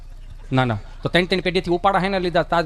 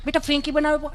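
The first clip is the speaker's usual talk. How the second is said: lightly voiced, a bit higher, sweet mother; doting mother; 7 semitones higher than usual. Mother fusses over son home from tuition, lightly sweet. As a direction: coo over your little boy.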